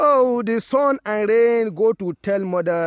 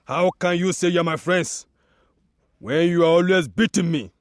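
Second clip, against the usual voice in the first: a touch of anger, slightly louder; angry tree; 4 dB louder than usual. Acted. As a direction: scold the rain, mildly irritated. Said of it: "The tree replied angrily".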